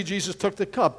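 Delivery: normal talking voice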